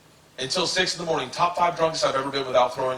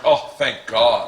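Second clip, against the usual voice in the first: drawn-out relief; slow relieved sigh; 2 semitones lower, 3 dB louder, much slower than usual. Retold or imitated. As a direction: slowly exhale the relief.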